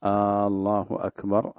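"الله أكبر" slow, opening a of "الله" dragged long; stretched first vowel. Shown as a demonstration. Sheikh repeating the wrong stretched call. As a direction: drag the start of "الله" into a questioning sound. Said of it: "هذا باطل".

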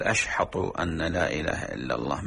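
"أشحط" with ha and ta instead of "أشهد"; mispronounced ashhad. Shown as a demonstration. Teacher imitating non-Arab mispronouncing the shahada. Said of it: "ما يحسن نطق الدال".

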